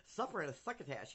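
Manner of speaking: lightly voiced lisping cartoon cat; a hint of Sylvester's sloppy lisp. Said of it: "I sound like, um, Sylvester the cat".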